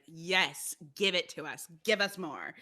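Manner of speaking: emphatic, punched-out cheering; fangirling. Retold or imitated. Fan cheering on artists' new work, eager and emphatic. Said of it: "thrilled and enamored and fangirling".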